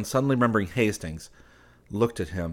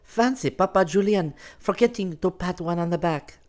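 merriment; 11 semitones higher, 3 dB louder than usual. Acted. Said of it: "with much merriment".

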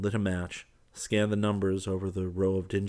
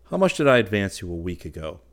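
stern; 11 dB louder than usual. Acted. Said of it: "frowning, told him to listen".

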